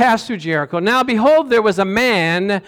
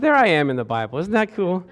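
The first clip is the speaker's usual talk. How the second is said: amused aside. Retold or imitated. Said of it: "I said".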